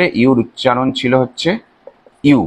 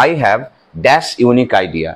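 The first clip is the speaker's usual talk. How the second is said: slow dictation; much slower than usual. Shown as a demonstration. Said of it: "আবার দেখো".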